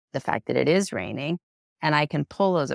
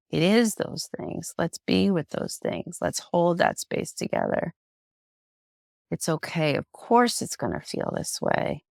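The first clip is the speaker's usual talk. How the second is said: gentle comforting; 2 semitones higher than usual. Retold or imitated. Imagined teacher comforting her grief.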